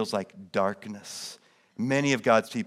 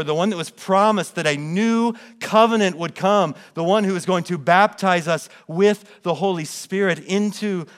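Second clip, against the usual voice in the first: higher, louder, proclaiming the one they waited for; joyful proclamation; 6 semitones higher, 6 dB louder than usual. Acted. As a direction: announce it like a herald to the crowd. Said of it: "he's announcing".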